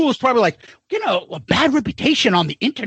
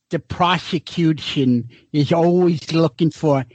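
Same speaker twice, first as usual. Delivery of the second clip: lower, slow slurred lecture voice; lightly imitating the professor's slur; professor's slurred way of talking; 7 semitones lower than usual. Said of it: "he used to talk like this".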